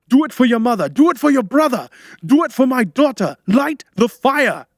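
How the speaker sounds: high, loud, desperate exhortation; frenzied screaming. A narrator's reading. Man begging helper for family's sake, screaming. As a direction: scream each plea, dragging out the last. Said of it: "he screamed, eyes bulging".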